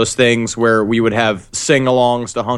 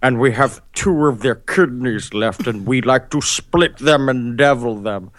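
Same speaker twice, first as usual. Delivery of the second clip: imitating a chef. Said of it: "the chef will come to your table and he's like".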